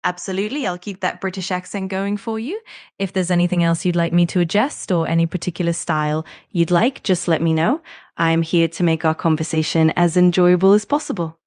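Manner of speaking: put-on English in a British accent; helpful assistant with a British accent. Assistant asked to speak like a Brit, British accent. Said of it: "parle avec un accent britannique".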